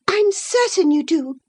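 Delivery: put-on a lovestruck girl digging in; infatuated girl. Isabella defying Catherine, high and stubborn. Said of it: "retorted Isabella".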